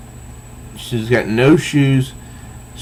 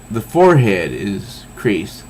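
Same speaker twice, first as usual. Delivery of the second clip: ordinary delivery, nothing marked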